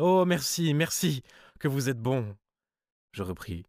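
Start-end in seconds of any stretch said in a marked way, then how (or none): 0.0-2.4 high outburst of relief, easing off; grateful exclamation. A narrator's reading. Cousin thanks him for promising the money, high grateful cry. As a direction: cry out your thanks, starting high and loud. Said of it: "Elle s'écria".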